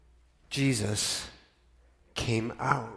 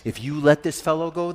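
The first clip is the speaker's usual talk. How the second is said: mob shouting; 7 semitones higher, 5 dB louder than usual. Acted. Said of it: "the Judeans shouted at him".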